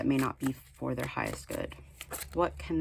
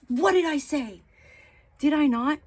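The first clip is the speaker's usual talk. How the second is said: playful disbelief; 10 semitones higher, 7 dB louder than usual. Real, not acted. Teasing exasperation at viewers.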